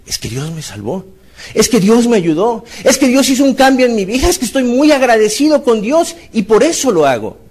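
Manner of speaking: a believer explaining why he worships; convinced believer. Retold or imitated. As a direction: answer full of conviction.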